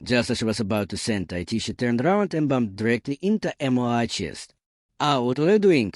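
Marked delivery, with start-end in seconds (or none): 5.0-5.9 higher-pitched, mildly startled question; a touch of surprise, voice lifting. A narrator's reading. Woman bumps into the man behind her, mildly startled. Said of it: "John jumped in surprise".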